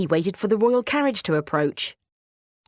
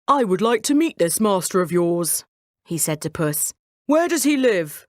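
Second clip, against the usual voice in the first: a hint of a royal voice, eager; curious king; 3 dB louder than usual. King asking the cat about his master, eager. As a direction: ask like a pleased monarch.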